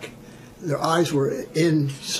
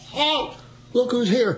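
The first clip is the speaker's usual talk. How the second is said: repeating the challenge; 8 semitones higher than usual. Shown as a demonstration. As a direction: proudly repeat the goof for the sergeant. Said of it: "What'd you just say?".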